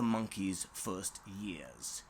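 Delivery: hushed unvoiced whisper; soft storyteller whisper. A narrator's reading. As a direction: breathe it secretly. Whispered line.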